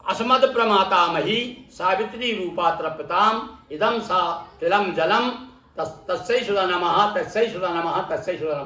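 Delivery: measured Sanskrit recitation, falling away at the end; teacher's demonstration of a mantra. Shown as a demonstration.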